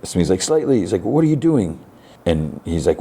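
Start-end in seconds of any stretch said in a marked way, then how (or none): 0.4-0.8 high-pitched retold call; alarmed appeal. Boy sees friend drag body, high acted alarm. 1.0-1.8 high-pitched imitation of dismay; alarmed question. Boy questions friend dragging body, high acted alarm.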